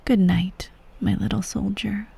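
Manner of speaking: soft, hushed bedtime farewell; tender goodnight. Acted. Empress bidding her little soldier good night, tenderly hushed. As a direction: lull a child gently to sleep.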